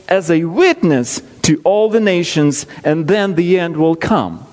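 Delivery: scripture reading. Acted. Preacher reading Matthew to his congregation, measured. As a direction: read the verses steadily, with weight.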